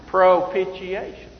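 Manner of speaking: "Propitiation" said slowly and carefully; showing off pronunciation. Shown as a demonstration. Preacher showing the congregation he can say it, careful "Propitiation". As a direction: pronounce "Propitiation" slowly, proud to get it out. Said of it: "'cause I can say it".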